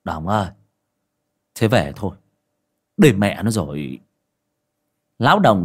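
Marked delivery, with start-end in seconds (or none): 0.0-4.0 put-on drunken slur. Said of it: "cất giọng lè nhè".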